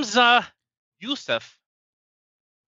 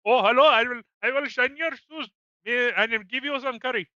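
higher-pitched put-on South Asian accent; mock South Asian accent; 4 semitones higher than usual. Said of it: "can you please do that accent".

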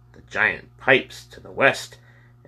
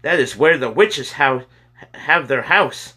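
higher, louder urgent announcement; emphatic declaration; 7 semitones higher, 5 dB louder than usual. A narrator's reading. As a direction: declare it high and forcefully. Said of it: "James declared".

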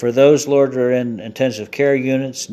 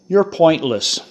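punchline; 6 semitones higher, 4 dB louder than usual. Pretend. Punchline of a corny joke.

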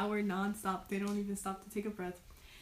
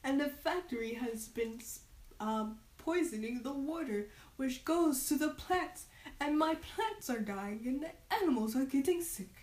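damp muffled mushroom voice; 5 semitones higher than usual. Acted. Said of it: "says the mushroom person".

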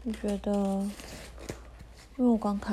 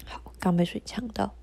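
choking on a drink. Real, not acted.

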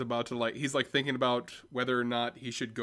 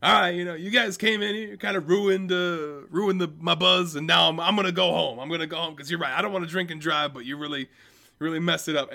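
put-on higher, louder whiny drunk complaint; hammed-up tipsy teen scolding cops; mock-hurt partygoer; 5 semitones higher, 6 dB louder than usual. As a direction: whine at the cops like your party got ruined. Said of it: "he's just like".

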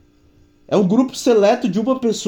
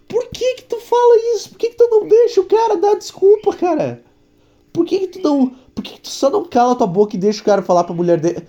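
much higher, exasperated protest; exasperated outburst; 10 semitones higher than usual. Real, not acted. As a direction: squeal it out in disbelief. Ranting at the TV network. (indignado, com voz bem aguda)

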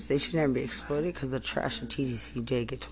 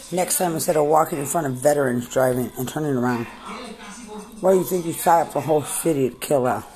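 angry yelling; 4 dB louder than usual. Real, not acted. Angry rant at officials.

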